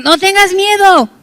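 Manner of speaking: preacher booming God's promise; proclaiming. Acted. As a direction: declare it over the crowd. God's word proclaimed to congregation.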